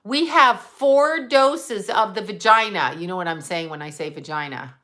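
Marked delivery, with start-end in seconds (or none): 0.0-2.9 slow, drawn-out PA announcement; a hint of a store announcer; mock intercom announcer. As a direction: mimic the pharmacy lady's pitch. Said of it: "on the intercom".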